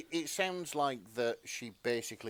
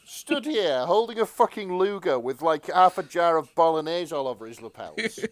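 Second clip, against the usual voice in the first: laughing rant; 4 semitones higher, 8 dB louder than usual. Real, not acted. Mocking the character's messy jacket.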